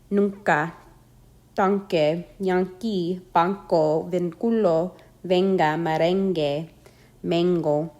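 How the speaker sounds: Nunca, tanque, banco, mango with N like the ng of sing. Shown as a demonstration. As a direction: say venga and merengue with a back-of-mouth ng. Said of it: "pronounced like the ng of sing".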